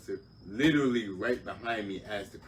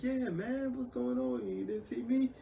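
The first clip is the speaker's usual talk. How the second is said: other driver; slower than usual. Retold or imitated. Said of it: "He was like".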